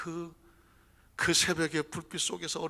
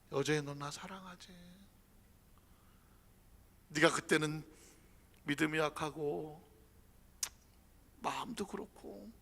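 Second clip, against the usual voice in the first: tender reassurance. Acted. Jesus reassuring Peter.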